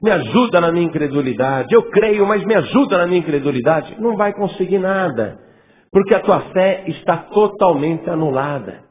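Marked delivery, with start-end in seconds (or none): 0.0-4.0 doubting believer. Retold or imitated. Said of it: "Você não pode falar".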